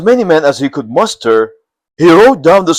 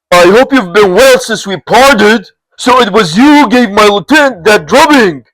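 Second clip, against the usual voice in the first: higher, louder friendly greeting; hearty greeting; 6 semitones higher, 4 dB louder than usual. Acted. Li Zhong greeting his old friend Lu, hearty. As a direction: greet an old comrade warmly.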